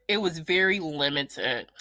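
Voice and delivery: ordinary delivery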